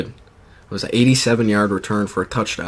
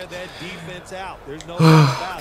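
relieved sigh; 7 semitones higher than usual. Real, not acted. Relief after nearly losing progress.

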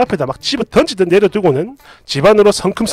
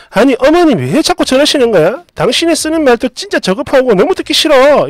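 mildly heated, pitched-up venting; acted angry complaint; 4 semitones higher than usual. Wife vents to husband about his mother, acted exasperation. 남편에게 화내는 장면.

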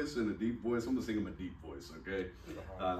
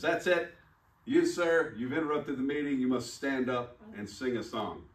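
little guy scolding; 3 semitones higher, 3 dB louder than usual. Retold or imitated. Little guy orders the meeting's interrupter to sing, mock stern. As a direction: play an officious little guy laying down the law. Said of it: "This little guy says".

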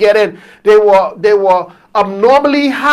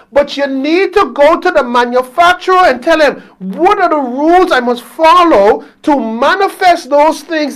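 berkhotbah dengan tegas; 3 semitones higher than usual. Real, not acted. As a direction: preach it with rising, driving stresses. Preaches to the congregation.

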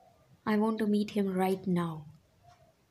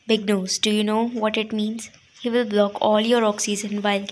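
louder, gleeful mockery; loud mocking tease; 6 dB louder than usual. Sister mocking the fiancé's big nose, loud tease. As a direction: belt out the insult to tease.

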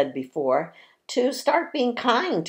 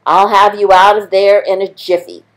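squeaky mouse; 4 semitones higher, 13 dB louder than usual. Acted. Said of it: "squeaked the mouse".

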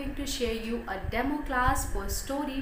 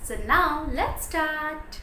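slow, lively teacher's cue; story-time teacher's opening; kindergarten teacher; much slower than usual. Shown as a demonstration. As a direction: draw the class in slowly and brightly. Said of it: "this is how you can present yourself".

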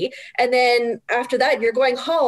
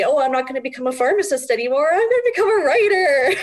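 laughing confession; 4 semitones higher, faster than usual. Retold or imitated. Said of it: "not a fun conversation with my parents".

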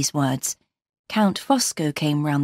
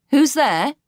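high, raised challenge into the dark; calling out; 8 semitones higher, 4 dB louder than usual. A narrator's reading. Marion challenges the dark figure by the lake, calling out. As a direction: call out sharply to someone unseen. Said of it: "then called out".

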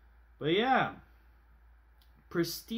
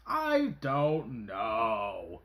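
deep voice; 8 semitones lower, much slower than usual. Pretend. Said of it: "Why am I talking like this?".

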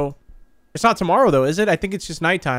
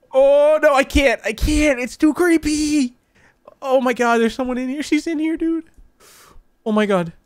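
high, frightened, breathless gasps; real scare; 9 semitones higher than usual. Real, not acted. Gamer spooked by mother in bedroom, high frightened voice. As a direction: freak out because she's in the room. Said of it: "I got teary eyes".

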